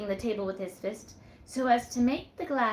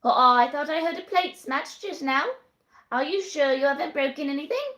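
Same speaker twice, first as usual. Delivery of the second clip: higher, louder, quick landlady; fussy landlady; 7 semitones higher, 8 dB louder than usual. Acted. The landlady checks on Susan, fussing quickly. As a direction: bustle in, suspicious and hurried.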